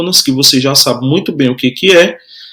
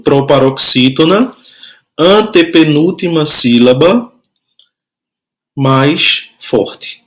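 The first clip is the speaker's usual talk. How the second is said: measured repeat for note-takers; spaced phrases, rising until the last word falls; slow dictation. Shown as a demonstration. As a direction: dictate it piece by piece. Repeating dictation for pupils writing.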